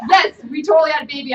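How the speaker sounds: loud, emotional laugh-cry; laughing, near tears. Retold or imitated. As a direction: let the joy crack the voice. Laughing teary reply.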